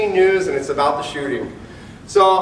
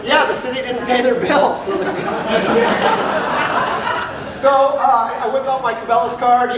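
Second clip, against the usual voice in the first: words spilling through real laughter, higher; laughing while talking; 8 semitones higher than usual. Real, not acted. Officer amused telling how the city card bounced, laughing. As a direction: talk through a laugh at the absurdity.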